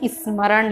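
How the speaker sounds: स्मरण said as ismaran; added initial i. Shown as a demonstration. Teacher shows children's spelling mistake, स्मरण with i in front. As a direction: put an extra i before the s of स्मरण. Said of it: "ई स्मरण बोल देते हैं".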